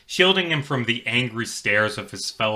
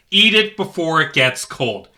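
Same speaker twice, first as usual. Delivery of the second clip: a firm, louder command; stern order; 6 semitones higher, 5 dB louder than usual. Acted. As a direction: order him to eat. Cop scolds the boy.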